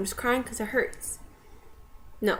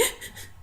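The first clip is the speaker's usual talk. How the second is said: short, voiceless mock sobs; imitated crying sniffles; 10 dB quieter than usual. Shown as a demonstration. Daughter after screaming at dad, imitated sniffling sobs. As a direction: act out quick crying gasps. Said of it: "doing the whole, like".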